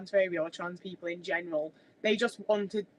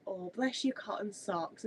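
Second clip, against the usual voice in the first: mock sweet, slow and softer, talking down; condescending; 7 dB quieter, slower than usual. Someone belittling a person: mock-sweet, slow, soft condescension. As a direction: imitate someone patting you on the head, slowly. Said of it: "really condescending".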